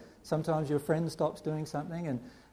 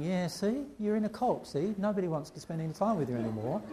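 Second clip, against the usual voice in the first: mocking friends; 3 semitones higher, 3 dB quieter than usual. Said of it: "my family friends saying".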